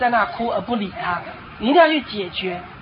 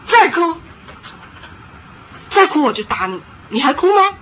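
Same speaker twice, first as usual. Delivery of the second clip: stern threat; 5 semitones higher, 3 dB louder than usual. Acted. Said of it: "他有时候会还要再挣扎".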